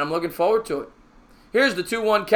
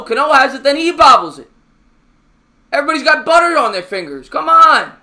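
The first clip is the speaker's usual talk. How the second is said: exasperated; 7 semitones higher, 6 dB louder than usual. Real, not acted. Second bobble on same play.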